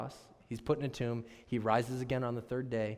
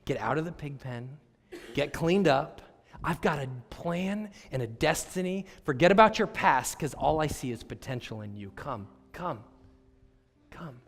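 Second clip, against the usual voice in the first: pleading Jesus. Retold or imitated. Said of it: "Jesus is saying".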